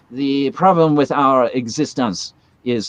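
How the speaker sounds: slow mock French-sounding philosopher; imitating a slightly slow French-sounding accent on the tapes; French-sounding Kant. Imitating Kant's accent on the tapes, sounds French. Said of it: "that's more French".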